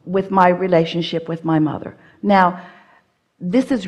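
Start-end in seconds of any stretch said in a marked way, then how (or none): 0.1-1.9 measured repeat, phrase by phrase; nice and slow. Shown as a demonstration. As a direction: take the sentence slowly and deliberately. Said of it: "let's just go nice and slow here".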